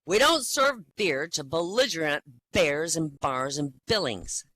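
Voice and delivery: forceful, deliberate refusal. Acted. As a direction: lay it down firmly, no nonsense. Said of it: "says more forcefully".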